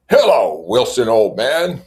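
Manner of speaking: high, loud, hearty hello; jovial greeting. Acted. Tom greeting Wilson at the garage, hearty and loud. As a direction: boom a backslapping hello. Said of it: "slapping him jovially".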